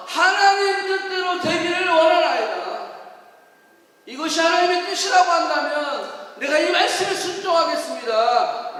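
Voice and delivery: loud, fervent prayer of surrender; Jesus. Acted. Jesus yielding to God's will in prayer, loud fervent confession. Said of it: "라고 주님은 고백했던 겁니다".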